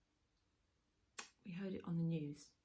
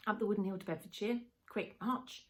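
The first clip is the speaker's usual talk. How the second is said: lightly voiced dad giving marching orders, louder; mock drill command from a fond father; playful dad; 3 semitones higher, 5 dB louder than usual. Dad packing little soldier off to bed, playful command. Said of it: "his dad would say".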